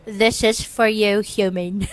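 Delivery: put-on British accent. Reading the AI's message to listeners, British accent. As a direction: read it in a mock British accent. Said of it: "Let me read it in a British".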